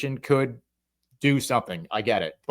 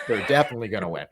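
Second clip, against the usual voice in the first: chuckling through the words, quick; laughing; 4 semitones lower, much faster than usual. Real, not acted. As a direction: toss it off with a laugh. Joking prediction, laughing it off.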